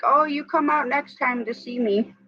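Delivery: lightly mocking high-pitched doctor quote; imitating doctor. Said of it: "And he always, ... he's like".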